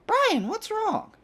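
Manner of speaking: high, slow worried-aunt voice; mock concern in a high, drawn-out voice; put-on auntie asking what happened; imitated concerned aunt.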